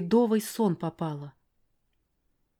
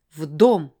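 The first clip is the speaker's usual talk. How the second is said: loud barked command; barked order; 2 semitones lower, 8 dB louder than usual. Acted. Father barking at his daughter, loud. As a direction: bark the order. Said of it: "гаркнул он".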